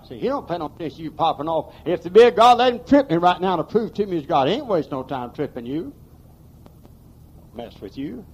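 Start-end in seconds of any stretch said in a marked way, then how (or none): 1.8-4.5 mocking scoffer. Preacher mocks a scoffer again.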